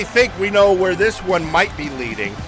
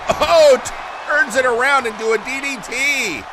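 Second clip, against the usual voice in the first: excited call; 4 semitones higher than usual. Real, not acted. Excited call of a big move.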